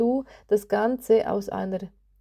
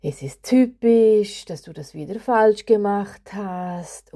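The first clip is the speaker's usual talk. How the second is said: inner critic voice; 4 dB louder than usual. Retold or imitated. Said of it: "die sagt Dinge zu dir".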